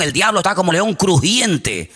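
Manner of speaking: "crujiente" said slowly in place of "rugiente"; slow, earnest "crujiente"; crunchy instead of roaring. Retold or imitated. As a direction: stress the mistaken word "crujiente". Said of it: "Sí, crujiente estás tú".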